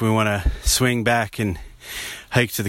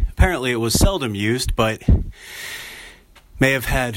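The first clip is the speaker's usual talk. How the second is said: panting between words after a steep hike; out of breath, gasping for air. Real, not acted. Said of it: "sorry, I'm out of breath again".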